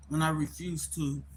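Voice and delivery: talking with food in mouth; words round a mouthful; mouth full. Real, not acted. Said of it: "I had something in my mouth".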